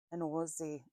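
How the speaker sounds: attempted Australian accent. Shown as a demonstration. Reader trying out how Australians say Aussie, clumsy Australian accent. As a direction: try an Australian accent and miss, with a rounded "Ozzie" vowel. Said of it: "I can't do accents".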